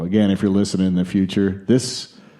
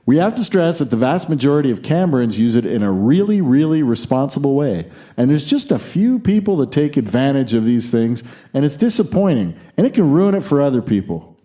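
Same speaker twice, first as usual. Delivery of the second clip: higher, brisk mock-Aussie voice; put-on Australian accent; 5 semitones higher, faster than usual. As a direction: rattle off the quote in butchered Australian. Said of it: "he didn't say it in this accent".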